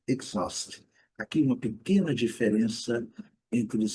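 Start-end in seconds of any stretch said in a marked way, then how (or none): 0.1-0.9 "exhaust" with a short vowel between E and I; teacher modelling "exhaust"; English pronunciation demo. Shown as a demonstration. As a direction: say "exhaust" as /ekzɔst/. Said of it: "o intermediário entre E e I".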